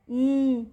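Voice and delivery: न with the mouth slightly open; phonic n sound. Shown as a demonstration. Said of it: "थोड़ा सा मुंह को खोल के".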